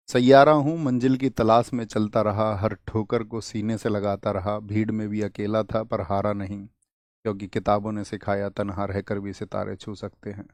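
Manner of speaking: a touch of dramatic shayari reading; reading shayari aloud. Retold or imitated. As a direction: read the couplet like a mock poet, softening to the end. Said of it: "एक भाई तो निरंतर शायरी कर रहे हैं".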